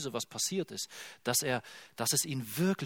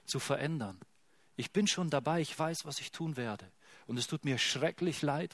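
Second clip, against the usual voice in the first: softer, intimate, reassuring voice; tender God; 3 dB quieter than usual. Acted. God reassures his hurting people, soft and tender. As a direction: comfort a hurting child. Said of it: "Und er sagt".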